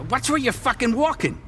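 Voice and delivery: high, irritated rebuke; sharp angry retort; angry snap. Acted. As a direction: snap at the stranger who bumped you. Bumped in the street.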